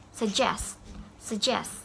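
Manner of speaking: "Suggest" said sug-GEST; stress on last syllable. Shown as a demonstration. Teacher modelling word stress for students, end-stressed "suggest". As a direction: land on GEST in each "suggest". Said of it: "have a stress at the end".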